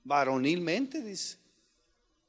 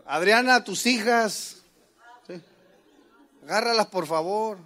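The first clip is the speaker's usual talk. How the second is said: louder calling-out reproach; scolding wife; 4 dB louder than usual. Retold or imitated. Husband scolding his wife Adriana, raised voice. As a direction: call her to handle the girls. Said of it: "regaño".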